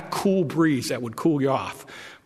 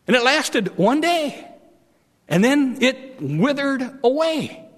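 God rebuking; 7 semitones higher, 3 dB louder than usual. Acted. God chiding Jonah over the gourd, high and loud. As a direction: lecture Jonah about his gourd.

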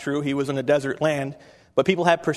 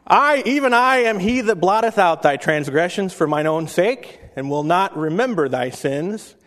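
preached scripture. Acted. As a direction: proclaim it like God speaking. Reads King James Isaiah.

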